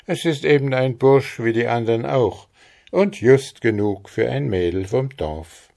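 leicht höhere Mädchenstimme, dankbar; angedeutetes junges Mädchen, freundlich; Maren, höflich. Acted. Maren answers. (Maren dankt Frau Trude höflich, mit etwas höherer Stimme)

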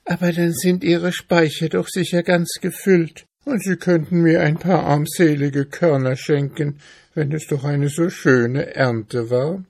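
high-pitched, pleading little mouse; poor hungry mouse, pitched high; plaintive mouse. Acted. Mouse begs in the story.

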